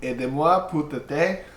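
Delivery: amateur attempt at a French accent. Game master repeats Hope's plea, French accent. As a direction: do your best French accent. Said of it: "as good as my French accent".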